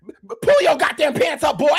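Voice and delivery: half-sung scolding from a fed-up mama; mama cussing. Retold or imitated. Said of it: "mama cuss me out".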